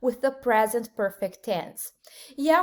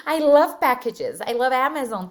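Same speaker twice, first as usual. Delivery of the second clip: laughing; 6 dB louder than usual. Real, not acted. Teacher jokes about loving packages.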